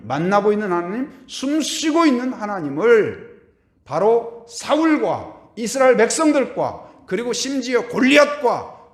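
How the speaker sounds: high, loud, slow proclamation; full-force preaching. Acted. Pastor proclaiming God's power to his church, preaching at full force. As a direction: thunder it out to the congregation. Climactic declaration to congregation.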